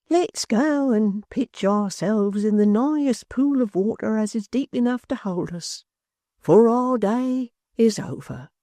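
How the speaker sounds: slow, hollow, doom-laden voice; the old maypole inviting him to drown; sepulchral tone. A narrator's reading. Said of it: "the sepulchral tone".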